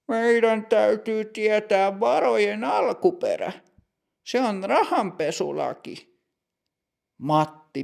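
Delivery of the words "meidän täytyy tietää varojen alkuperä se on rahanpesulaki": put-on higher, measured voice of a strict older clerk; stern bank clerk. Older bank clerk greeting customer Matti, stern and higher.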